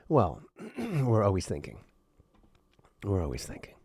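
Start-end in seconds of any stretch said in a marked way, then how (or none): 3.0-3.7 breathy whispered repeat of the line. Shown as a demonstration. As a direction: whisper it to yourself, barely voiced.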